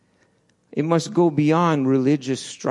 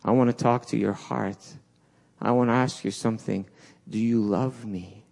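softer, gentle asking; tender Jesus; 3 semitones lower, 4 dB quieter than usual. Retold or imitated. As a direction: speak to his heart quietly. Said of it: "Jesus comes and he says".

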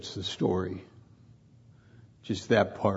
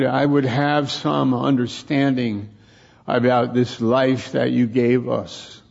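emphatic, forceful prayer; strong plea to the Lord; really strongly; 5 dB louder than usual. Real, not acted. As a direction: pray it aloud with conviction. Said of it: "I want to say it to myself really strongly".

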